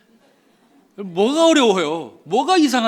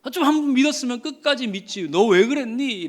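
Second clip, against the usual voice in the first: scolding; 4 semitones higher than usual. Pretend. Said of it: "라고 책망하시는구나".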